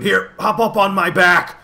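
high, loud urging call. A narrator's reading. Dog calls to companions to climb.

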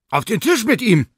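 high, loud, cheerful order; cheerful booming. A narrator's reading. The professor booms cheerfully to put the dog on the table. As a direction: call it out gladly from afar. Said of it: "rumste von irgendwoher die heitere Stimme".

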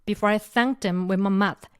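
very slow, "thanked" pressed and falling; stress on thanked. Shown as a demonstration. Teacher modelling the line, slow stress on "thanked". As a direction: drag it out, leaning on "thanked". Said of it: "강세 여기 붙으시면 되고요".

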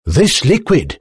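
high, excited professor; with excitement. A narrator's reading. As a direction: announce it high, like a thrilled inventor. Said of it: "said the Professor with excitement".

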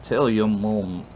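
put-on slurred, rambling drunk; sloppy drunk apology. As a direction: stumble tipsily and drag out the last words. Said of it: "what it sounds like when you're drunk".

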